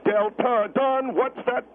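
slow, spaced-out count before the title; song count-in. Retold or imitated. Guest imitates Margaret counting down her songs, slowly spaced. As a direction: mimic a singer counting down a song. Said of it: "I hear you count down your songs".

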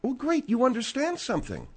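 mock praise; sarcastic. Host to Margaret who says she understands, sarcastic. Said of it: "Well, don't be sarcastic".

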